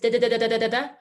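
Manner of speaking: rapid light da da da; quick D. Shown as a demonstration. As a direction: tap the D fast. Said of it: "make that D fast".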